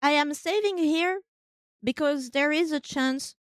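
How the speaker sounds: talking with a mouth full; words round a bite of food. Real, not acted. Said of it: "Sorry, I'm eating with my mouth full".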